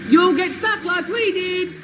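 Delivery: shouted warning. Acted. Pike shouts warning at Hodges.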